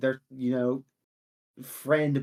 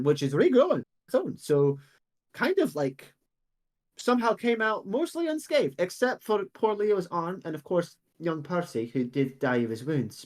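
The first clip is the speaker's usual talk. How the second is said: put-on old woman's voice.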